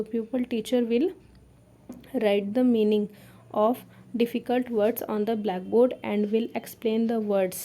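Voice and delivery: slow, spaced-out dictation pace; teacher dictating notes slowly. Shown as a demonstration. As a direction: spell out each phrase for note-taking. Dictating lesson plan text.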